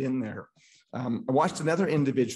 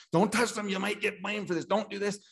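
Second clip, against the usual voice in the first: higher, lightly voiced nervous bystander; mock cautious warning; 8 semitones higher than usual. Speaker mimics the people warning him not to help, lightly higher. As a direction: imitate the timid voice of caution.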